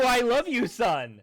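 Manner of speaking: a loud, suspicious I love you; dad's accusing voice. Retold or imitated. Son mimics his dad accusing him of love. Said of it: "my dad's voice".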